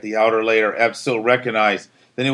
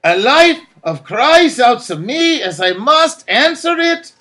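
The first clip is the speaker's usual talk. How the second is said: resolute Absil; 12 semitones higher, 5 dB louder than usual. A narrator's reading.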